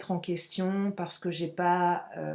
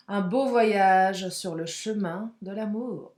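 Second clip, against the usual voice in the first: poetic; slower than usual. Shown as a demonstration. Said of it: "je suis poétesse aujourd'hui".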